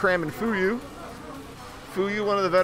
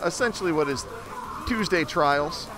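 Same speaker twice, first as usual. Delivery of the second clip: muffled. Real, not acted. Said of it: "Sorry if I sound a little, little muffled".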